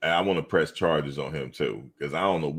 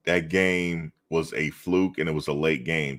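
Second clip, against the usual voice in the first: straight-faced. Retold or imitated. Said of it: "I said it with a straight face".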